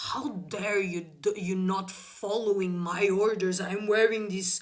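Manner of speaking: mock indignant officer; triggered policemen. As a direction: imitate an offended cop, stretching the last words. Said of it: "they were so fucking triggered".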